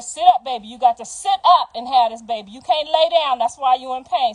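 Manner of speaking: loud, insistent coaching; firm coaching. Retold or imitated. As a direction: push her firmly to sit up. Coaching daughter-in-law to sit up.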